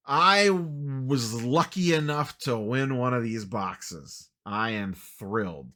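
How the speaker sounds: slow, drawn-out mock enthusiasm; sarcastically thrilled. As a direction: feign excitement with heavy irony, dragging the words. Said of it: "Can you hear the excitement in my voice".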